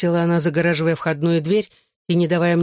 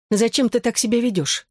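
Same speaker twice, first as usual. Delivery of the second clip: higher-pitched woman's question, mildly softened; 6 semitones higher than usual. A narrator's reading. Bella asks her ex about his behaviour, mildly softened. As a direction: ask it a touch more gently, pitched up. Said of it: "уже мягче спросила Белла".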